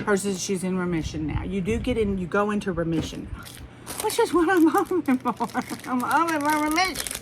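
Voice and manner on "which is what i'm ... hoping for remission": hopeful laugh. Real, not acted. Hoping for remission, laughs.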